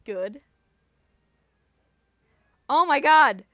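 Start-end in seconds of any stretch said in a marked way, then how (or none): 2.7-3.4 surprised. Real, not acted. Sudden surprise during battle.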